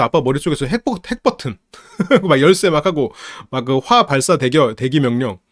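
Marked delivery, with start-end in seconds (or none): none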